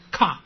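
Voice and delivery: 卡 with a sharp puff of breath; brief, breathy-onset 卡; short aspirated syllable. Shown as a demonstration. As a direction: aspirate 卡 and cut the vowel short. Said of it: "卡有一个气音叫短促音的卡".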